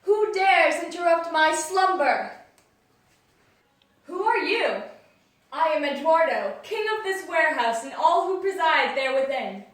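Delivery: booming awakened stone guardian; loud, lofty voice of a waking statue; grinding stone statue. Acted. Warehouse king woken from slumber.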